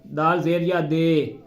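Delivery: दे said with e instead of दी; wrong pronunciation. Shown as a demonstration. Teacher showing sound not to make. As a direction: mispronounce दी as दे. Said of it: "ये आवाज़ नहीं निकालनी हमने".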